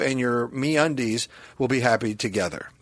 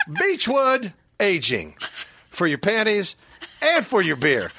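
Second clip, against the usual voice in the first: mock beer commercial; 4 semitones higher than usual. Quotes old beer slogan.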